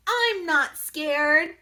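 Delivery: high, slow, brave little voice; a tiny mummy insisting he's brave; little baby mummy. Acted. Baby mummy insists he's not scared, slow and high.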